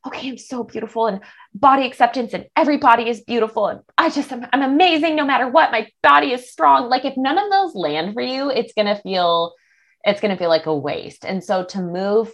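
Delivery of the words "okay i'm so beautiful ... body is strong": fast, sing-song fake cheer; mock positivity. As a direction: gush affirmations without meaning them. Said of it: "not just like".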